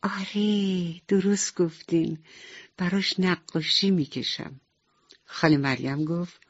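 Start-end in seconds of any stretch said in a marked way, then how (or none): 0.0-4.6 put-on higher, bright child's joy; sick little girl happily agreeing with nurse, joyful; happy little girl. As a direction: chirp it like a delighted little girl. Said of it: "با خوشحالی گفت".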